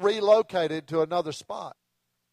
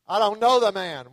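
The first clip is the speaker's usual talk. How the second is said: snapped out with an exclamation point, louder; exclaimed denial; 3 dB louder than usual. Retold or imitated. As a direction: Peter fires back an indignant denial. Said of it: "with an exclamation point".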